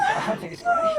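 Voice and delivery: laughing through the words; giggly and high. Real, not acted. Laughing about zombie game.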